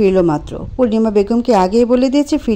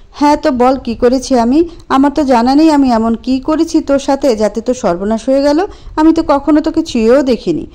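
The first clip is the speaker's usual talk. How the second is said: raised, exasperated voice; heated defence; 4 semitones higher than usual. Acted. Anto snapping back at Priya, exasperated. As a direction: push back hard.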